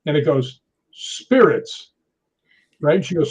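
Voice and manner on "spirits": drawn-out, higher one-word ghostly answer; imitated spirit voice. Spirit box answering who pushed him, imitated ghost voice. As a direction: intone it slowly like a spirit replying.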